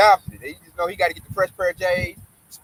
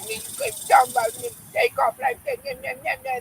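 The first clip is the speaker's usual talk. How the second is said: angry coworker quote; 4 dB quieter than usual. Retold or imitated. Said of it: "he all like".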